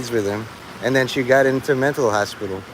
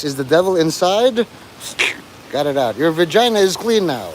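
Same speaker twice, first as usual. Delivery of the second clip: mock preacher again; 3 semitones higher than usual. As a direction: stretch 'gone' like a lazy exorcist. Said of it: "Like, uh".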